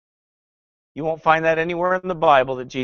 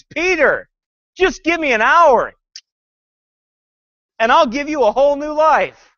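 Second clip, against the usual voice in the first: high pleading movie Jesus; 10 semitones higher, 4 dB louder than usual. Retold or imitated. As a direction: beg him, higher and louder. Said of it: "Jesus pleads".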